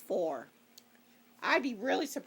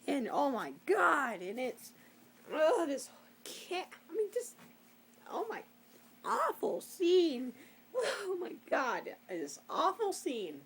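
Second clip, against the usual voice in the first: exasperated; 5 semitones higher than usual. Real, not acted. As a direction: drag it out in disbelief. Outraged at a bad scene.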